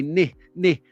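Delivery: ni with a short i, as in nit; short British vowel. Shown as a demonstration. Explaining his lip position, ni said as short nih. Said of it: "my lips go up when I say".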